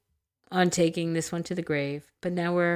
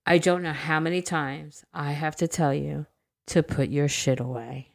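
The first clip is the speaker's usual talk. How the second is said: flat, bored, emotionless voice; monotone voice. Retold or imitated. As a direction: read it dead flat and unbothered. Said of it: "With a monotone voice".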